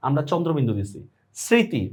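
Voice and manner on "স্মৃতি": স্মৃতি as "sriti", no m; silent m-phala. Shown as a demonstration. Teacher illustrates for students, স্মৃতি with silent m. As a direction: drop the m in স্মৃতি. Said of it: "মফলার উচ্চারণ নাই".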